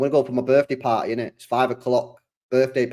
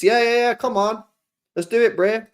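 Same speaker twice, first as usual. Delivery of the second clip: hyped up; 9 semitones higher than usual. Real, not acted. Hyped after cracking the order.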